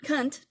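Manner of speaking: "Cunt" said again with the n sounded; correcting the word. Shown as a demonstration. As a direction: fix the word, put the n back in "Cunt". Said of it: "sorry, my accent".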